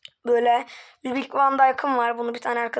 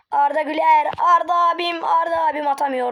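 excited; 4 dB louder than usual. Acted. Attack by Arda in commentary.

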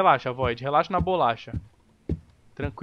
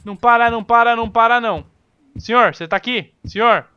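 urgent; 4 semitones higher, 8 dB louder than usual. Real, not acted. Running from monster.

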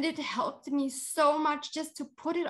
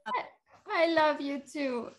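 still crying; 4 semitones higher than usual. Real, not acted. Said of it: "so I can stop crying".

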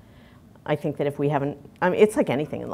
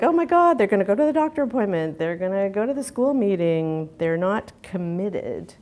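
mock alarm; 5 semitones higher, 4 dB louder than usual. Voicing alarmed business view of mothers.

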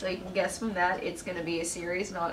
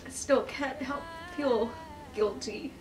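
real crying; 5 semitones higher, 6 dB quieter than usual. Real, not acted. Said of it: "I've been crying in every single".

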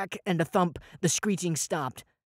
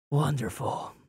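a touch of sighing sarcasm; 2 semitones lower, slower than usual. Acted. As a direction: let the word sag sarcastically. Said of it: "Eric sighed".

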